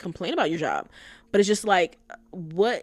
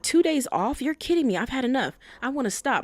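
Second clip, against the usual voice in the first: higher-pitched imitation of fed-up griping; mock complaining; 5 semitones higher than usual. Girlfriend fed up with her job, mock complaining. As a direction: mimic someone incredulous and fed up.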